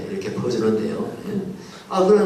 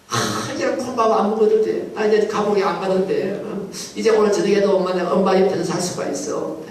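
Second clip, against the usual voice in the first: put-on boy's joy; 6 semitones higher than usual. Freed boy rejoices going home.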